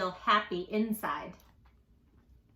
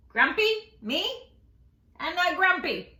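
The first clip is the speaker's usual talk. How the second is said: higher and louder denial; indignant monkey; 6 semitones higher, 5 dB louder than usual. Acted. Jim denying to Lemur, high indignant protest. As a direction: protest again.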